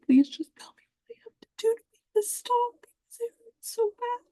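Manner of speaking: high, broken whisper that cracks into a sob; sobbing whispered prayer. Retold or imitated. Retelling her prayer on the bathroom floor, sobbing whisper. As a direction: beg God through tears, barely voiced. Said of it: "whispering to myself".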